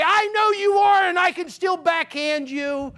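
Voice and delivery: a mother putting her grown son in his place; stern mom. Retold or imitated. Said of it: "she would say".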